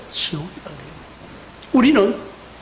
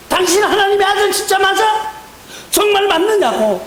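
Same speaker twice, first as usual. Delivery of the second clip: mocking sneer; 8 semitones higher than usual. Thief on the cross jeering at Jesus, higher mocking sneer. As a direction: taunt him with a sneering laugh. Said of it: "비방하기 시작합니다".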